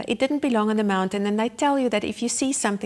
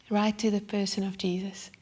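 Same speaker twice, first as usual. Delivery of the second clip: hushed whisper; 5 dB quieter than usual. Real, not acted. Preacher whispering to the congregation about Jesus, hushed.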